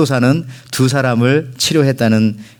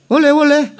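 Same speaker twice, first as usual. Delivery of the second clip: Jeolla dog bark. Retold or imitated. Preacher imitating a Jeolla dog's bark, high yelping voice. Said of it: "이렇게 짖는데요".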